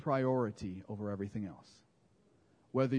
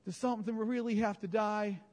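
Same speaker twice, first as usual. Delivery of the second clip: mock disciples pleading; 3 semitones higher than usual. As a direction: beg like reluctant followers. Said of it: "They go".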